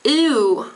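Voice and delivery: ew like a quick disgusted sound. Shown as a demonstration. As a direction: ew as a model for ü. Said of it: "when you're disgusted by something".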